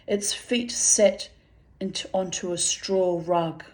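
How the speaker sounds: measured literary reading aloud; story narration. A narrator's reading. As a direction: read the story out with deliberate phrasing. Reads fiction aloud.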